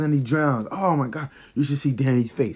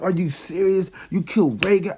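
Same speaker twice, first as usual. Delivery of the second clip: higher pitched outraged disbelief; 6 semitones higher than usual. Retold or imitated. Reliving Rhaegal's death, higher pitched disbelief. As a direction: replay your shock at the screen. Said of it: "I was like".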